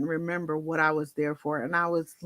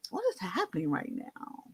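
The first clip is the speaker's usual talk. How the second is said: bewildered; 9 dB quieter than usual. Retold or imitated. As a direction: ask it half to yourself, dazed and faint. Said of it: "I said".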